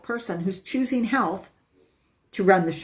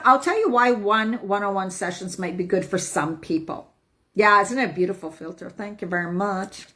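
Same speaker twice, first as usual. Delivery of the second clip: ordinary delivery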